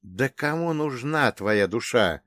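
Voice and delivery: slow, amused smirk. Acted. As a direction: brush it off with a grin. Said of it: "с усмешкой произнёс я". (с усмешкой)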